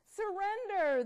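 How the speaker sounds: loud, high command; commanding pills. Acted. Pills ordering Buzz to surrender, commanding. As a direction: order him to give up. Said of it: "they commanded".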